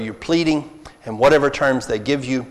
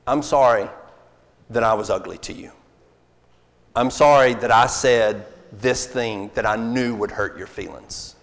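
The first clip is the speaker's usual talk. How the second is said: sincere apology; 3 semitones lower than usual. Shown as a demonstration. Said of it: "No, no".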